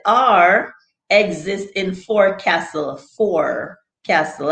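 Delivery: FORECASTLE with the R clearly sounded; pronounced R. Shown as a demonstration. Reading a word to the chat, R pronounced. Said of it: "I pronounce the R".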